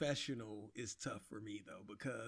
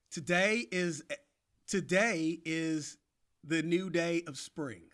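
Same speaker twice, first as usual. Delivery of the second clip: slow, halting try at a British accent; attempted British accent; slower than usual. Shown as a demonstration. Jeff slowly repeats the sentence in a failed British accent. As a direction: struggle through it in British English. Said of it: "or whatever you just said".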